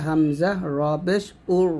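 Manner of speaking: উর with a thick, full final R; heavy Ra. Shown as a demonstration. Teacher shows students the full R in উর, heavy Ra. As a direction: make the R of উর heavy. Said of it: "র সাকিন মোটা হবে".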